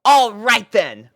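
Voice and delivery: satisfied pony voice; satisfied Rainbow voice. A narrator's reading. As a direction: settle it with satisfaction. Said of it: "replied Rainbow, satisfied".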